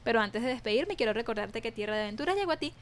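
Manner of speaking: projected radio presenter closing read; radio sign-off. Acted. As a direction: sign the show off like a radio announcer, lifting at the goodbye. Radio host reads the closing credits.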